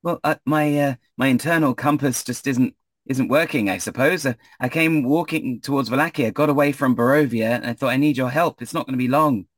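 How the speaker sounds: high, eager stranded traveller; Ismark's voice. Acted. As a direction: wave them down, pitched high.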